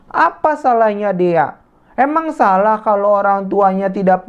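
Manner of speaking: scolding friend. Acted. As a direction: tell the bullies off kindly but firmly. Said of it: "Dian seperti ini". (menegur dengan tegas namun lembut)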